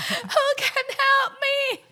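slow, high calling across the office; panicked office worker. Retold or imitated. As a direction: call out to colleagues, helplessly. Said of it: "他就是感觉把话". (慌张地向办公室求救)

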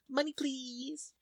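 high, soft, drawn-out wheedle; Mona Lisa Saperstein. Retold or imitated. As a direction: beg sweetly like a spoiled brat asking for cash. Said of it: "Mona Lisa Saperstein from Parks and Recreation".

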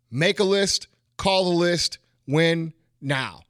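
rhythmic chant of the motto; dad's rhythm. Retold or imitated. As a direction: make a list, call the list, win now in a steady chanted beat. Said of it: "that's how he would say it".

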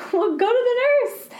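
high, loud laughing answer; laughing reply. Retold or imitated. Teacher to the boy, laughing hard while sending him off. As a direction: push the words through laughter.

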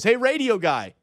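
light holler, not full volume; mock calling out. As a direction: call out from a few steps away. Acting a stranger calling out.

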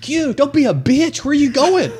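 loud, high, drawn-out call; retold mocking shout. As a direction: holler after someone leaving. Retold calling after angry friend.

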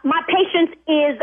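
losing patience, firm and sharp; exasperated scolding. Real, not acted. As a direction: snap at him to focus. Doctor loses patience, scolding.

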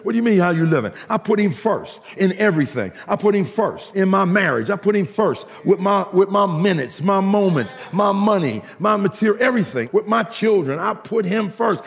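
rhythmic, emphatic preacher's cadence; preaching. Acted. Preacher testifying to the congregation about priorities, preaching. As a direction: punch out each phrase like a testimony.

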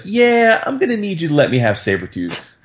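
hint of a passive-aggressive manager making a request; Office Space boss. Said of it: "an Office Space where he's like".

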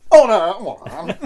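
high, loud mock Speaker's cry; posh order call. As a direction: bellow "Order, order" up high, laughing. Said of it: "And then you've got this".

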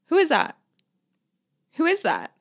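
feigned ignorance. Retold or imitated. Angry mother-in-law shown the phone, pointedly feigning ignorance. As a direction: play pretending not to recognise the caller. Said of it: "She's so mad about it".

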